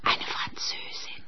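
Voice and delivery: hushed whisper behind a hand; whispered gossip. Acted. Landlady whispers to her friend about the French guest, hushed whisper. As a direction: whisper it so the guest won't hear.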